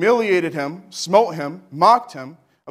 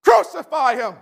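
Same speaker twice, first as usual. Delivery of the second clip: rising furious crowd shout, much higher and louder; yelling mob; 12 semitones higher, 4 dB louder than usual. Acted. Preacher voicing the mob demanding death, full shout. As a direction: scream it like the baying crowd. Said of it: "They yelled out".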